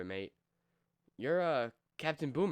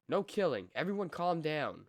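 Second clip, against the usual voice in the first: firm command; 5 semitones higher, 3 dB louder than usual. Acted. Stopping a fight in the cell block.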